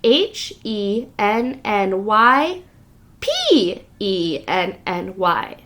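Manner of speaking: slow spelling out letter by letter; spelling slowly. Shown as a demonstration. Teacher spelling the name slowly for young listeners. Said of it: "look at the letters in that name".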